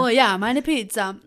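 eating while talking; mouth full. Real, not acted. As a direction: chew and talk at once. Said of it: "ich esse hier nebenher".

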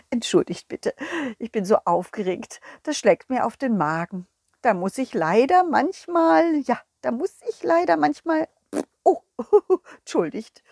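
apologise, flustered and giggly; lightly voiced nervous king.

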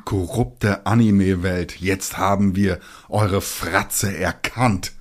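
slow, hammed-up dramatic denunciation; a fake outraged teaser line, slowly; mock dramatic accusation. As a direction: declaim it like a mock exposé trailer. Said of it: "Das hab ich jetzt einfach nur gesprochen".

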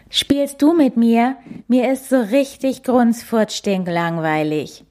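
put-on high whiny child voice; whiny little bear. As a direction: whine it like a bored child. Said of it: "nölt der kleine Nasenbär".

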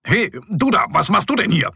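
sneering call from the race car; fox calling. A narrator's reading. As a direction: fox taunts the bear from his red car. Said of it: "ruft der Fuchs".

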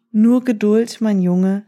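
put-on gentle patient old man; calm gentle wise voice. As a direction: soothe the impatient boy. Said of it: "sagte der weise Mann".

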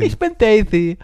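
high, loud lisping woman's voice; slushy lisp. Retold or imitated. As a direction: lisp the S like Daisy. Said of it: "die lispelt halt so ein bisschen". (lispelnde Frauenstimme)

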